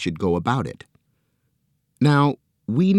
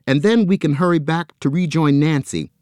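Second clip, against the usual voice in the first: high, louder eager promise; excited cry; 8 semitones higher, 5 dB louder than usual. A narrator's reading. Joe to the arm, high and thrilled. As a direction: burst out with joy. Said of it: "he cried".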